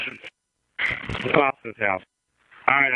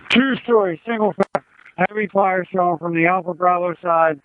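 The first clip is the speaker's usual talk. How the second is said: raised, tense radio call; urgent firefighter radio; 5 semitones higher than usual. Real, not acted. Fire chief calling in working fire.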